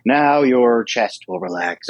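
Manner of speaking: slow, lightly imitated relaxation script; relaxation script reader. Someone reads a relaxation script to a listener, slow guiding delivery. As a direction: draw it out like a guided relaxation. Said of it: "they read different".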